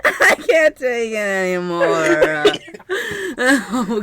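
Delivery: slow, loud, half sobbing through laughter; laugh-crying. Real, not acted. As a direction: wail it out, overwhelmed.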